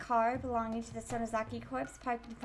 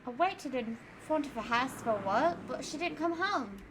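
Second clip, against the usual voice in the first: put-on Australian accent. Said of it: "Australian accent".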